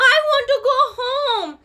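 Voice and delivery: high loud whimpering bird voice; high crying birdie, half laughing. Acted. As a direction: whimper it like a homesick chick. Bird's cry repeated.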